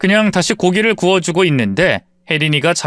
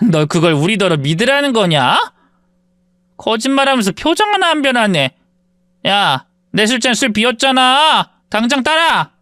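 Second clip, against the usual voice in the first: lightly voiced sneering classmate; mean girl belittling the narrator; contemptuous taunt; 7 semitones higher than usual. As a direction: order her around with contempt. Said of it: "무시하는 말을 아끼지 않았습니다".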